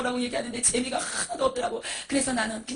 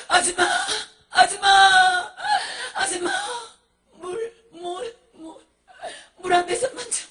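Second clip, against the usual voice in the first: louder, higher, tearful begging; sobbing plea for water; 4 semitones higher, 6 dB louder than usual. Acted. Burning miser in hell begging a woman for water, sobbing. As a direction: cry out for water, stretching the calls.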